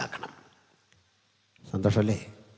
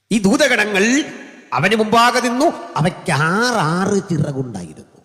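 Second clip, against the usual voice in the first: raised, high declaiming voice; full-force preaching; 9 semitones higher, 5 dB louder than usual. Real, not acted. Preacher describing six-winged angels before God, full-force preaching. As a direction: declaim the vision loudly from the pulpit.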